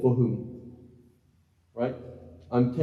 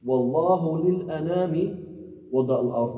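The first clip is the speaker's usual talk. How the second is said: slow Arabic example; 4 semitones higher than usual. Shown as a demonstration. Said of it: "What if I say something like".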